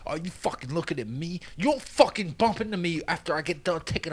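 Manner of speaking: high put-on tough-guy taunt; mock bar brawler. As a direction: needle him like a drunk in a bar bathroom. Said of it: "some dude that was like".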